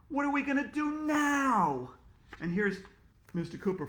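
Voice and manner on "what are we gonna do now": panicked question. Acted. Panicked teacher.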